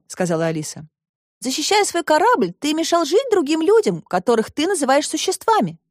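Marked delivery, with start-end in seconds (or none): 1.4-5.8 put-on higher girl's voice, gently scolding; girl Alice, reproachful. A narrator's reading. Alice scolds the robot, higher girl's voice. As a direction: correct the robot kindly but firmly.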